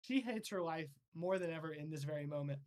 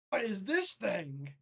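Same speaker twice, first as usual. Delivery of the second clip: alarmed shout; 3 semitones higher, 6 dB louder than usual. Acted. Captain Commando facing the monster, loud alarmed demand. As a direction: bark out the question in alarm. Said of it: "Captain Commando goes".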